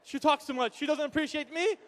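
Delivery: softly voiced mock husband's grumble; a hint of a worn-down husband, kept quiet; complaining husband. Husband complains about his wife, understated mock grumbling. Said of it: "And the guy's like".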